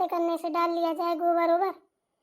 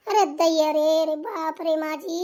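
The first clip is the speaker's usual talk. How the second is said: startled gasp; 3 semitones lower than usual. Acted. Bahu startled by outburst.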